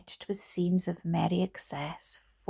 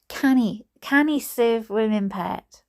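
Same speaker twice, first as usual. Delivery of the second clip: higher attempt at Geordie drifting into Scottish; botched Geordie, sounding Scottish; 4 semitones higher, 5 dB louder than usual. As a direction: aim for Geordie, land in Scottish. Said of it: "That's more like Scottish".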